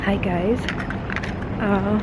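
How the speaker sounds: talking between bites; eating. Real, not acted. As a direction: mouth full, quiet. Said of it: "sorry, I'm eating".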